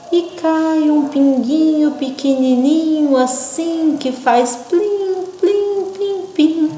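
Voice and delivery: high, slow plim, plim, plim falling; slow falling drops. Shown as a demonstration. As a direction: let each plim drip down slowly. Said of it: "pra vocês lerem bem devagarinho e caindo". (plim bem devagarinho e caindo)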